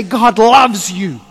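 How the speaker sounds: slow, sincere God loves you. Retold or imitated. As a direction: say it slowly, like you mean it. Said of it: "to actually say".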